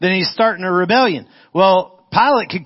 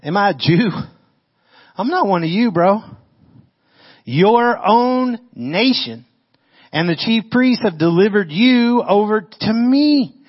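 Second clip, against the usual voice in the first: Pilate retorting; 6 semitones higher than usual. Acted. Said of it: "Pilate answered".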